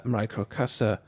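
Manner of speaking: put-on playful Italian accent on the name; smooth Italian accent. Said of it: "with my smooth Italian accent there".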